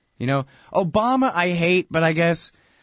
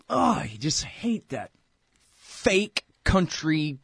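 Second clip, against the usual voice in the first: mock twang; 3 semitones higher, much slower than usual. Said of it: "Stop faking that fake twang".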